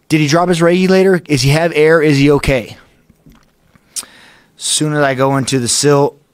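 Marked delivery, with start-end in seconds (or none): 0.1-2.8 anxious questioning. Retold or imitated. Retold anxious thoughts about partner.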